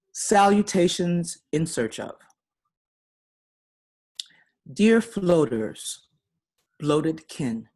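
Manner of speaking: measured poem recital with weighted openings; poetry reading. Acted. Poet reading a letter-poem to the audience, deliberate recital. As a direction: read each phrase deliberately, pausing between images.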